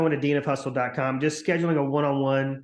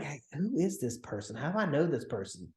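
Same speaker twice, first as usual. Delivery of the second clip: puzzled prospect; 5 dB quieter than usual. Retold or imitated. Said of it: "they're racking their brain".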